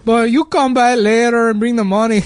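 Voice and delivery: put-on high, loud Mexican-accented plea; mock sobbing. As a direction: imitate a tearful landlord begging. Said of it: "he's, like, sobbing".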